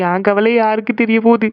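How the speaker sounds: tearful acted lament; crying. Niece lamenting that nobody understands her worry, crying. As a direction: complain through put-on sobs. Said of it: "நின்னு அழுதுட்டு இருக்கா".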